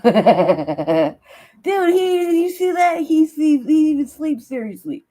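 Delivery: high, loud, laughing disbelief; gasping with glee at the sleeper; high giddy outburst, still laughing; laughing excitement. Real, not acted.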